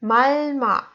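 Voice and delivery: malma run together as one word; two syllables joined smoothly in malma. Shown as a demonstration. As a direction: say malma whole, without splitting letters. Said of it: "So we have the word".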